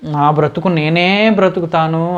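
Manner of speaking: slow, drawn-out retold boast; heroic boast. Son recalling brave words to his father, mock-heroic boast. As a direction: imitate your own proud declaration, stretching it out. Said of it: "వీరాలు పలికేను మా నాన్నగారితో".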